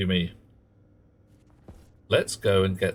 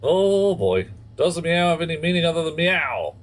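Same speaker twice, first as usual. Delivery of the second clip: high and loud, amused by the meows; excited, high; 8 semitones higher, 4 dB louder than usual. Real, not acted. Streamer reacting to a cat sound, high and excited. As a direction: perk right up, voice lifted high.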